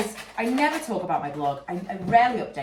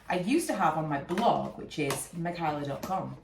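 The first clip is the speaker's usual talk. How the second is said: stuffy, congested voice; blocked nose. Real, not acted. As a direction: talk through a blocked nose. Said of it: "Sorry, I'm still so congested".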